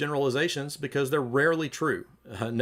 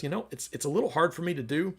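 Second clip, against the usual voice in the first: gentle wife; 3 semitones higher than usual. Retold or imitated. Wife gently answers her husband's insult, lightly voiced. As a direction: gently ask for a hand. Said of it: "responds actually kind of gently".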